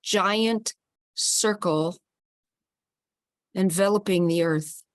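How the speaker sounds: calm, steady guiding voice; guided visualization. Acted. Host guiding the group to hold hands, calmly. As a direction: lead the circle gently through the image.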